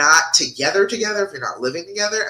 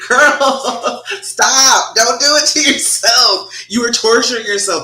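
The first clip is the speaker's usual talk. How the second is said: louder and higher, a slow pleading reprimand; exasperated scold; 6 semitones higher, 6 dB louder, slower than usual. Real, not acted. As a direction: stop her from hurting herself, loudly. Scolding viewer who keeps asking.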